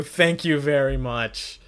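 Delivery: thanks that come out sounding sarcastic; loud, drawn-out thanks with an ironic edge. Real, not acted. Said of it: "I sound sarcastic".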